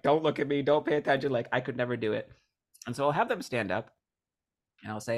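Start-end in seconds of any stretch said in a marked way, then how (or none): 0.0-2.3 higher, louder imitation of panicky refusal; mock scared. Scared volunteer avoiding public speaking, mock panic. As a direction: imitate someone dreading being picked. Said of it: "scared that don't even wanna raise their hand".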